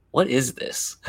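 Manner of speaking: lightly imitated waitress question; a touch of mock puzzlement; puzzled waitress. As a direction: lightly quote a curious waitress. Waitress puzzling over martini.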